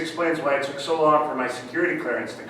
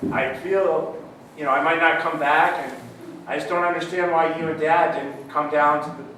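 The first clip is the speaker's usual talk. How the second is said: put-on British accent. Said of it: "started talking in the British accent".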